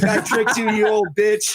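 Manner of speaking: gleeful taunt breaking into a laugh; mock gloating laughter. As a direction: imitate a trickster cackling at his victim. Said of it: "he starts laughing".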